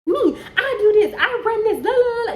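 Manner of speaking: high, loud mocking rant through laughter; mock shrill tirade, laughing; mocking her tantrum. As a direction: ham up her bragging, cackling. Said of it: "she just going off".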